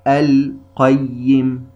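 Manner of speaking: القيم very slow, the lam clearly pronounced; slow demo. Shown as a demonstration. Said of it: "اللام الساكنة بعدها حرف القاف".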